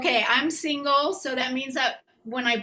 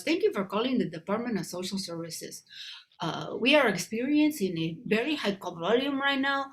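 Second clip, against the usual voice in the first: imitating the automated hold message; recorded phone voice. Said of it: "I'm not supposed to do a voice".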